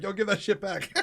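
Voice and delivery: imitated demand through a laugh; laughing mock demand. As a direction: play the chat member, cracking up. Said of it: "Mobsky is like".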